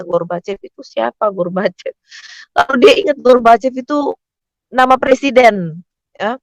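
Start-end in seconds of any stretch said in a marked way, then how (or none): 0.0-1.9 soft retold thinking aloud; puzzled musing. Mother still thinking while wheeled out, soft musing. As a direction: wonder softly to yourself who that is. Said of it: "dia masih mikir ternyata".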